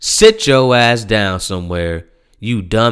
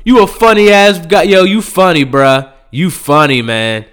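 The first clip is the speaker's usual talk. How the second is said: mocking laughter; 6 semitones higher, 5 dB louder than usual. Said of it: "They were like".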